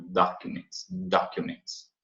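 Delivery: "documents" with a "kyu" middle syllable; pronounced U. Shown as a demonstration. Teacher demonstrates the U after explaining it, pronounced-U demo. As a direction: sound the U in "documents", unhurried. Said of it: "esse U é pronunciado".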